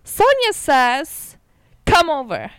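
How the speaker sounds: slow, mock text-to-speech voice; lightly imitated dictation voice; robot phone reader. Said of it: "And it says".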